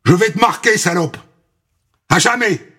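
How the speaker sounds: vicious threat. Acted. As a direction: threaten with cold cruelty. Linda threatens with razor. (menace cruelle)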